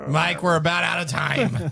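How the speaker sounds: slow, grumbling sign-off voice; grumpy man voice. Retold or imitated. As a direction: grumble it like a grouchy old host. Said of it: "That's his grumpy man voice".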